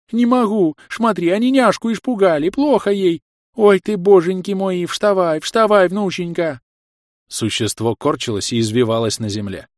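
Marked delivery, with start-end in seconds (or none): 0.1-6.6 put-on high, loud frantic old woman pleading; a grandmother in despair; granny begging her granddaughter to get up; wailing granny. Granny wailing over girl.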